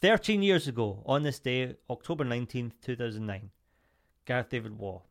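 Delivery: lightly voiced radio DJ intro. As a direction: announce it like a radio host. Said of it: "you sound like a radio D J there".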